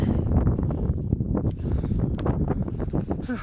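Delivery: heavy breathing after climbing; catching breath, panting; gasping for air. Real, not acted. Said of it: "I'm out of breath".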